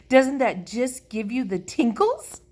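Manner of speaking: put-on high, loud girlish gushing; excited. A narrator's reading. Lucille asks the children about the tinkles, thrilled.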